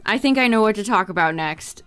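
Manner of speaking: ordinary delivery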